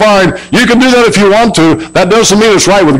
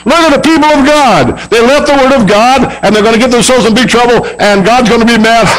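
lightly voiced gleeful devil, higher; mocking devil; 5 semitones higher than usual. Preacher voicing the devil jeering at God's people, mild mock glee. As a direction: gloat like a devil watching sinners.

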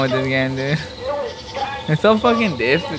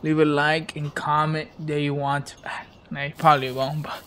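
whispering; 6 dB quieter than usual. Real, not acted. Unvoiced whisper outro aside.

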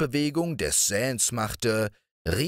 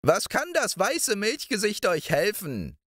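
put-on old moor witch; 11 semitones higher than usual. A narrator's reading. Old witch cooing over Balthasar's hen, high crooning voice.

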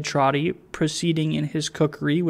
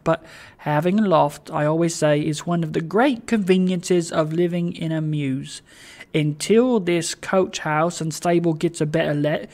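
chatty, encouraging old host, lightly voiced; Trotty, cheering his guest. Host showing guest the loft, cheerily reassuring. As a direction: talk on cheerily to lift someone's spirits. Trotty talks without intermission.

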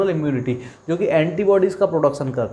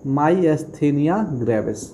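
myasthenia gravis stretched out syllable by syllable, very slow; slow emphatic naming; much slower than usual. Shown as a demonstration. Teacher naming an important disease for students, very slow. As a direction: lay the disease name down slowly so it sticks. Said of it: "important disease है।".

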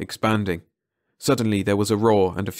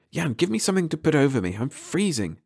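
put-on higher girl's voice, not whispered; shivering girl voiced higher, no real whisper; Mara's voice; 7 semitones higher than usual. A narrator's reading. Mara reporting to Eric, voiced higher and cold.

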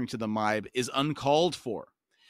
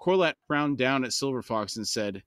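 steady audiobook reading voice; calm novel narration; story narration. A narrator's reading. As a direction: read the chapter aloud, even and measured. Reads novel aloud to podcast.

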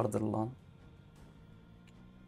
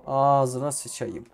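slow, louder, stretched curse with falling end; drawn-out exasperated curse; 4 dB louder, much slower than usual. Real, not acted. Gamer fed up with the game, slow exasperated curse. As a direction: drag it out in real exasperation. Frustrated gamer cursing twice.

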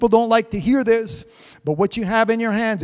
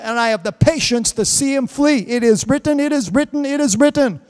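louder, rising preacher's cadence; fervent preaching; 3 dB louder than usual. Real, not acted. Preacher urging the congregation to resist the devil, fervent. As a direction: drive it home like a revival pulpit.

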